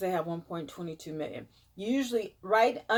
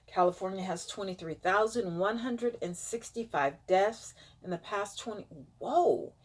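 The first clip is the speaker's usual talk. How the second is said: blocked nose voice; stuffy nose. Real, not acted. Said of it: "I don't know why I'm stuffed up".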